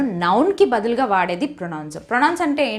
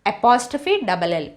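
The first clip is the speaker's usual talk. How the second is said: slow spelling out; much slower than usual. Shown as a demonstration. Teacher spelling a contraction slowly for students. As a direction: spell "apostrophe double L" very slowly. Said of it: "will అనేటప్పుడు you'll అని వస్తుంది".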